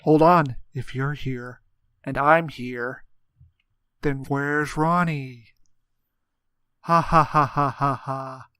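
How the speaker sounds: loud hammy sitcom delivery. Pretend. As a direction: play it for the laugh track. Sitcom bit in roleplay.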